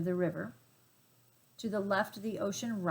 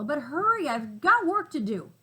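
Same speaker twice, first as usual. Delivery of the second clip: gruff gorilla; 6 semitones higher, 6 dB louder than usual. Acted.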